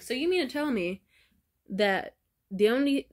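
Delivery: imitating friends, loud and emphatic in disbelief; incredulous support. Friends hear the story, loudly back her up. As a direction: hammer home that she did nothing wrong.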